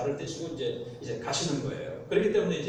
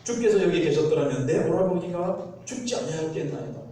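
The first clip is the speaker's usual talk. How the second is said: snapping reproach, louder; 쏘아붙이듯; 4 dB louder than usual. Acted. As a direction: fling the words at him resentfully. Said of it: "탁 쏘아붙이는 듯한 거죠". (원망 섞어 탁 쏘아붙이듯)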